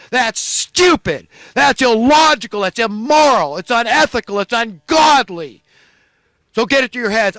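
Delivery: righteous indignation building to a shout; angry rant. Real, not acted. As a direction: vent real fury at the governor. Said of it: "But I'm angry".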